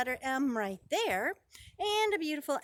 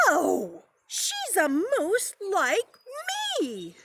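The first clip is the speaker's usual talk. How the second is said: a louder, drawn-out "No! She's a moose like me!"; mock yell; 8 semitones higher, 5 dB louder, slower than usual. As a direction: yell it in protest, playfully. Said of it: "Morris yelled".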